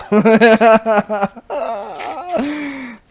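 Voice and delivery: shrieking laugh that nearly cries; high wheezing laugh. Real, not acted. Storyteller in fits over the punch, high wheezing laugh. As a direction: laugh till it squeaks.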